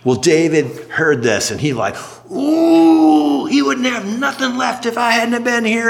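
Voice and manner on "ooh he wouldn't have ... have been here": angry outburst. Retold or imitated. David shouting in anger at rude Nabal. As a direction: shout it out, offended and furious.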